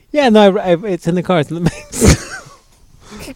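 mock flustered him. Friend mocking him offering gift in the car, high slow nervous voice. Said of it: "you're over here like".

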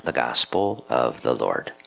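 measured, solemn lector reading the lessons; unhurried liturgical reading; scripture reading. Acted.

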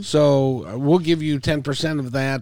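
lightly put-on voice of a pompous scammer, drawing out the words; mock scam letter voice. Host mimics a scam letter for the guest, lightly hammed-up. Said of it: "the letters kinda go like this".

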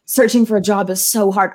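lightly hammed-up self-pity; mock dramatic whine. Mocking her old Facebook post, mildly dramatic. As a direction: overplay the complaint a little. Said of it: "I'm dramatic".

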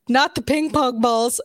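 slow, emphatic note read aloud; all-caps reading. Acted. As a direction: read it out slowly, as if in capitals. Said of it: "And in all caps, it says".

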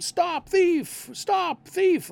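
high yelled cry; yelling stop thief. Retold or imitated. Pickpocket victim shouts to the bobby, high yell. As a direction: call out like a robbed victim. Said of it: "they would start yelling out".

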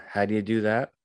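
usual speaking voice

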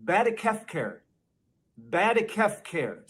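Badakefcare spoken as one slurred word; mock Biden mumble. Shown as a demonstration. Teacher presenting a garbled Biden word, deliberately. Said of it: "the next word we've got is".

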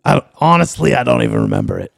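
gruff talk-radio voice; Alex Jones voice. Pretend. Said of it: "What voice are you doing right now".

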